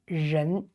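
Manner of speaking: 人 starting on a buzzed r, then n; R sound demo. Shown as a demonstration. Teacher modelling the R sound, careful 人. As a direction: blend the r and n into 人. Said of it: "R sound".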